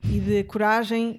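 slow, sincere encouragement; slow heartfelt message. Real, not acted. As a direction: speak slowly like a pep talk. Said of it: "Olha, malta".

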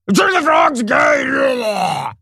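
very high, slow, drawn-out mock shout; Alex Jones rant. Commentator mocking Alex Jones, high drawn-out mock shout. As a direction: scream it like a frantic conspiracy host. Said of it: "Alex Jones using extreme rhetoric".

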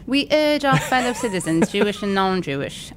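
high, put-on British accent; a hammed-up British accent; mock British accent. Shown as a demonstration. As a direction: read it like a posh Brit. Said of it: "do it again, but in a British accent".

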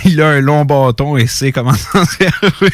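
chuckling through the words; laughing. Real, not acted. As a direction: laugh while you say it. Laughing at his own line.

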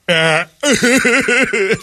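high-pitched comic wail; high keening mock sob; mock crying. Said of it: "We're just crying like".

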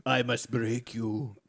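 slow, lightly voiced Russian heavy; a hint of a stolid movie Russian; Ivan Drago. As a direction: draw each word out slowly. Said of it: "is that the Russian?".

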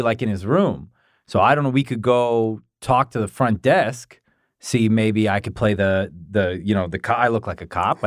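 talking with a tissue in his nose; tissue up one nostril. Real, not acted. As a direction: speak with one nostril plugged. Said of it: "Tissue in my nose".

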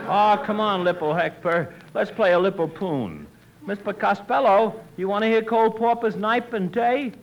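"Lipple poon", "Cole Pauper", T as P. Acted. Tommy coaxing Hector to play, T as P. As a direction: swap each T for a P. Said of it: "He can't say the letter T".

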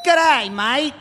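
light Aussie twang; lightly voiced Australian bloke; Australian accent. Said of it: "the hero of heroes for all Aussies".

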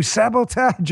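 hammed-up French accent on one word; awful French accent. Host joking with his producer Jose, awful French accent. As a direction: do a bad, mock French accent. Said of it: "The French accent, the awful French accent".

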